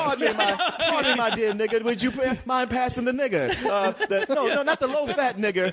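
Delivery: high, laughing mock-genteel plantation owner; hammed-up polite slave owner at dinner; DiCaprio impression. Mocking the film's villain to friends, a laughing high genteel voice. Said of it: "Leonardo DiCaprio".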